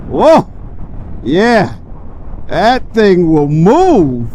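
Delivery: blown away by the power; excited. Real, not acted. Reacting to the bike's power.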